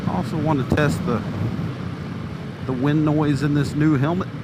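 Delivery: muffled inside a motorcycle helmet; talking inside a closed helmet. Real, not acted. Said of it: "I've got my new Shoei helmet".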